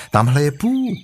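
Christopher Robin. Acted. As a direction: call out on spotting a friend. Christopher Robin spots Pooh.

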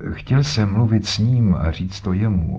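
a hint of a grumpy old man digging in; lightly voiced old codger, stubborn; insisting like a surly old man. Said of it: "s nerůdklivou stařeckou umíněností".

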